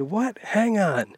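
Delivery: hammed-up old guy asking her to wait; imitating deaf old man yelling. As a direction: deaf husband hollering back, fiddling with his ear. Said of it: "they're talking real loud to one another".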